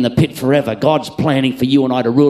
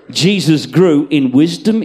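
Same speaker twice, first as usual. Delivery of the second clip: louder emphasis; 3 semitones higher, 6 dB louder than usual. Acted. Preacher building the verse.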